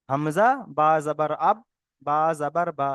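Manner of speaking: slow, measured syllable-by-syllable spelling drill; recited spelling, parts set apart. Shown as a demonstration. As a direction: spell it out slowly for learners, pausing between parts. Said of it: "এটা আমি বানান করে বললাম".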